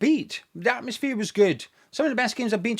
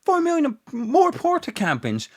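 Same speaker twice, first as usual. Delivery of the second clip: mock brag; 4 semitones higher than usual. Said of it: "brag about how much you said".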